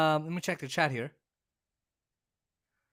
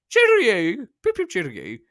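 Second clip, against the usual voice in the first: bad British accent. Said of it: "sorry for the terrible accent".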